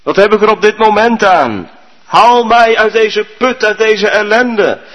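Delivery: man in a pit calling for help; crying out. Acted. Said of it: "riep die Chinees".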